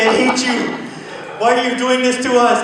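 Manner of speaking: groggy early riser grumbling to himself; mock groggy complaint. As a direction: whine at yourself at four thirty. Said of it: "I'm brushing my teeth like".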